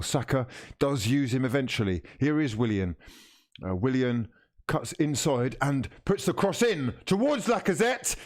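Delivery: TV match commentator voice; live commentary. Acted. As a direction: call the match like a broadcaster.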